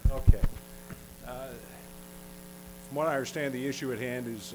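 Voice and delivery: loud, projecting drill-sergeant voice; military voice. Real, not acted. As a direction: speak up like addressing troops. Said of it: "use my military voice".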